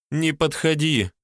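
slow, high, pitiful plea; plaintive mewl. A narrator's reading. Girl fallen in the grass pleads, slow and high. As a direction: beg him weakly to keep away. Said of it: "жалобно мяукнула девчонка".

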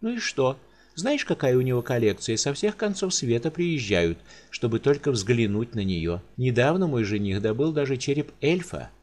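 a careless noblewoman chattering; carefree countess. Acted. Countess casually explains her gift to the giant.

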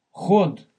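ХОД with a hard voiceless kh, loud; ошибочное «х». Shown as a demonstration. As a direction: punch out ХОД with a Russian х. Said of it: "это совсем другое". (громкое «ход» с глухим русским «х»)

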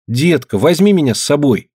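put-on high, pleading boy's voice; pestering child. A narrator's reading. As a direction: beg like an eager little boy. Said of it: "пристал он к деду Фишке".

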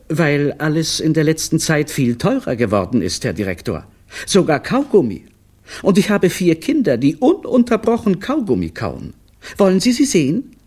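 high, nervous plea; pleading clown. A narrator's reading. Clown pleads with the director for a raise, high and nervous. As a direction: list the reasons fast and anxious.

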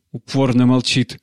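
usual speaking voice

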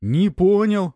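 громкое растерянное восклицание, выше; выпалить в полном недоумении; опешив. A narrator's reading. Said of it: "опешил тот". (бандит ошарашенно переспрашивает героя)

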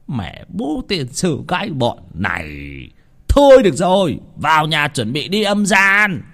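loud, high angry scolding; angry snap. A narrator's reading. Master scolding his ghost servants, loud and angry. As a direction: bark it at them, fed up. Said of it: "trợn mắt nạt bọn âm binh".

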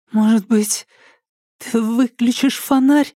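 high, timid, careful asking; timid request. A narrator's reading. Alka timidly asks the psycho to turn off the torch, high and shy. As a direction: ask shyly, afraid to anger him. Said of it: "попробовала она робко".

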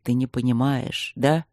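low rumbling challenge; a dragon's low, rumbling taunt. Acted. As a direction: let it rumble low in the chest. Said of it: "сказал он ракочуще".

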